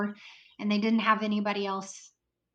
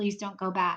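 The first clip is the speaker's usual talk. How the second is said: mock pleading, begging manner. Speaker retells a man holding their shoulders and pleading with them; imitating someone begging. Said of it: "He's begging and pleading with me".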